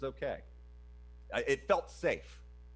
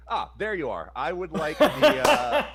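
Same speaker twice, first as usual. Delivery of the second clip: mock suave; 5 semitones higher, 10 dB louder, slower than usual. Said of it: "you just go like".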